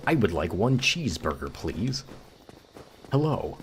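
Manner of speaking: lightly exaggerated American accent; stereotypical American accent. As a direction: play up a stereotypical American customer. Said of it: "do a stereotypical American accent".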